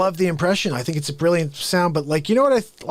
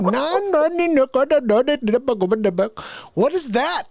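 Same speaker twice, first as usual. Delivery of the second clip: mock bewildered; 7 semitones higher than usual. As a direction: act baffled at nonsense words. Mock outraged confused questioning.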